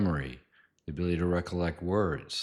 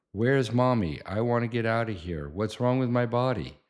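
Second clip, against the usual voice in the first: put-on scared child; 5 semitones higher, 4 dB louder than usual. Son panicking at needle.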